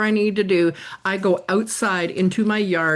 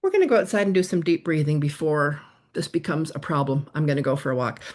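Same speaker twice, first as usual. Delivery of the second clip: calm self-talk; 4 semitones lower than usual. Retold or imitated.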